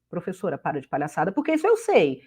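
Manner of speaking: teacher playing an impatient student, lightly; mock student. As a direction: imitate a student rolling their eyes. Teacher mimics an exasperated student.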